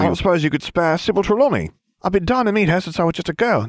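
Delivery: high, quick, eyelash-batting voice; squeaky flirtatious airhead; flirty ditzy witch. A narrator's reading. Farfelu flirting, high fast.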